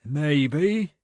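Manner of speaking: cautious. A narrator's reading. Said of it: "he said cautiously".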